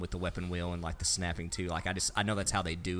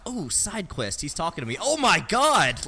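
excited; 8 semitones higher, 6 dB louder than usual. Retold or imitated. Retells excited game moment.

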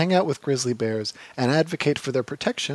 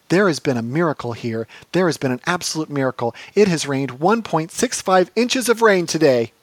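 Treadwell impression; 3 semitones higher, 4 dB louder than usual.

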